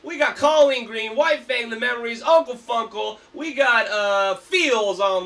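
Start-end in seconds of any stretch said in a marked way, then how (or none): 0.0-2.2 festival hype shout. Real, not acted. Host announcing festival lineup.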